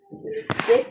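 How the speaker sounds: jumps way up in pitch; high squeaky. Pretend. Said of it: "c'est la fin de cette petite pub".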